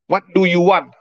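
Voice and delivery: put-on word-by-word English, Indonesian accent; beginner's Indonesian-accented English question. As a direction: imitate an Indonesian with poor English. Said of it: "Kalau yang Inggrisnya nggak bisa".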